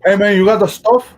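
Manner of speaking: put-on loud, Cuban-accented gangster demand; Tony Montana. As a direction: bark it like a drug lord. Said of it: "Tony Montana meets Forrest Gump".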